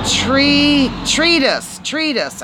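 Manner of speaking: treatise tried as "tree-dis"; test-say treatise as "treedis"; trying the word out. Shown as a demonstration. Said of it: "Tell me how to say it".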